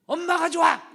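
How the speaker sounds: put-on high, loud childish yell with a laugh; child shouting. Son yelling he prefers mom, childish yell. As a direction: shout it gleefully like a little boy. Son's retort in story.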